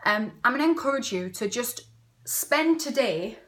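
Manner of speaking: winded, short of breath. Real, not acted. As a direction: talk while catching breath. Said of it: "I'm out of breath".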